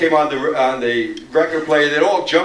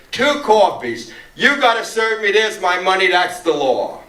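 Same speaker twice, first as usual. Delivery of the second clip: emphatic, high-pitched order; imitated firm demand; 4 semitones higher than usual. Marcia slapping money on the counter, imitated firm demand. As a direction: lay down the law, acted out.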